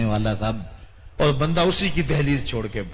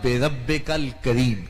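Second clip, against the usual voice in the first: slow recitation; much slower than usual. Shown as a demonstration. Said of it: "اچھا دیکھیے".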